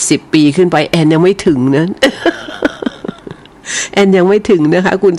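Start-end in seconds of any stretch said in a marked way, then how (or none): 1.9-3.3 a short breathy high-pitched giggle; airy little laugh. Real, not acted. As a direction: giggle at your own joke. Laughs at her own age joke.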